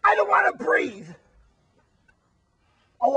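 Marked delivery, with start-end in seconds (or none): 0.0-1.1 petulant shout. Acted. Wally refuses to calm down.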